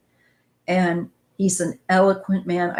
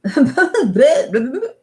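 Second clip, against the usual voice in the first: laughing at own slip; 6 semitones higher, 6 dB louder than usual. Real, not acted. Laughs at her own slip on Obama.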